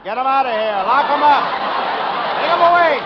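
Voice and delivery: high, rushed and flustered. Acted. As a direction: hurry him away in a fluster. Detective flustered by the wife.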